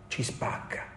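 hushed, breathy repetition; whispered warning. Real, not acted. Sermon emphasis, repeated.

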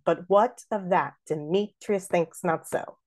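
da-DUM beat with "Demetrius" merged to de-MEE-tryus; beating out iambs. Shown as a demonstration. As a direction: scan it evenly, squeezing "Demetrius" to three syllables. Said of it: "let's beat out this third line".

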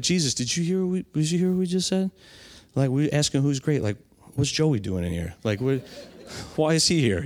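baffled disciple asking Jesus; a light put-on disciple voice; disciples' incredulous voice. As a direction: play the confused disciple, half joking.

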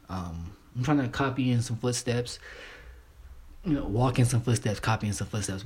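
stumbling over his words; stuttering. Real, not acted. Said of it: "I'm stuttering my ass off".

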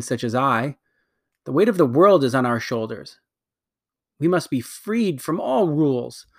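lightly voiced imperious queen, bitter at her sister; a hint of a haughty queen, scornful; proud wicked queen. Queen justifies destroying her world, haughty.

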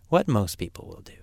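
hushed whispered aside. Acted. Teacher whispers to the student, a hushed aside. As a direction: lean in and whisper it like a secret.

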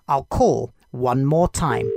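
slow, musing inner thought; a hopeful idea taking shape; thinking aloud. Acted. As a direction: ponder it slowly. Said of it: "he thought".

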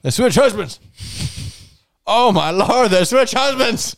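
high, shocked repeat of they switched husbands; hammed-up disbelief; mock shock.

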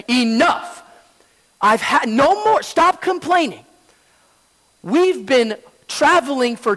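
stern slow rebuke from the second monk; firm rebuke. Retold or imitated. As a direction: lay down the law slowly, word by word. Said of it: "the second monk looked at the first monk and he said".

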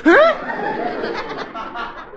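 sudden high squeak of a question; a startled double take; surprised. Acted. Archie realises the squirrel is Veronica, surprised.

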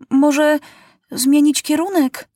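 put-on a young king suggests a new course; boy's suggestion. A narrator's reading. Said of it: "radzi Maciuś".

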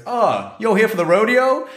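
very high, friendly Texan lady; high-pitched Texan twang; Texan accent. Retold or imitated. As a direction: imitate a Texan's eager question. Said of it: "exactly that accent".

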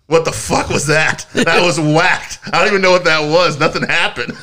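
mock baffled. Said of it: "are just like".

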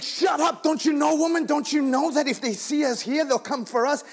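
sharp high shout telling her to hush; shouted retort. Retold or imitated. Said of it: "He's like".

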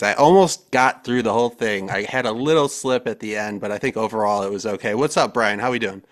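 winded after a long read; catching breath while talking. Real, not acted. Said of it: "I'm out of breath".

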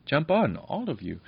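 bright, eager call, pitch up on jump; beaming. A narrator's reading. Princess beams as she invites the children aboard. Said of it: "said the princess, beaming".

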